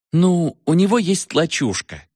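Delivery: curt high retort; snapped. A narrator's reading. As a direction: cut the doubt short impatiently. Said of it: "отрезала Ева".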